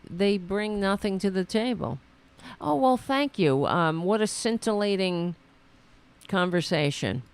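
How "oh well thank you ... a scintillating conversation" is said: mock-gracious thanks, starting raised then settling; lightly sarcastic politeness. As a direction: pretend to be impressed by the witty exchange. Sarcastic reply to crude insult.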